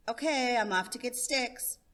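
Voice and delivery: put-on a kid heading out; cheerful child. Child Johnny leaving.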